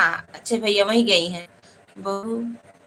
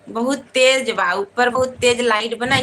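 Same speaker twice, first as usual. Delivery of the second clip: loud; 4 dB louder than usual. Real, not acted. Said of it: "आरती भाभी थोड़ा धीरे चिल्लाए".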